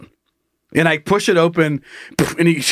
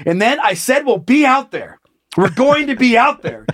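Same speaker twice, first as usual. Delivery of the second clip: mock speech; 5 semitones higher than usual. Man giving a speech to the bathroom floor, mock declaiming. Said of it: "He's giving a speech to the floor".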